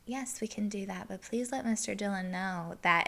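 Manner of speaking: politely firm, understated; restrained, businesslike firmness; serious voice. Retold or imitated. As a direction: lightly put on a serious work voice. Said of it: "get my serious voice".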